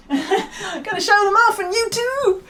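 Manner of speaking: giggling through the line, high and slow; breathy amused giggle, pitched high; laughing. Real, not acted. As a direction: laugh it out as you say it. Giggling about showing off on camera.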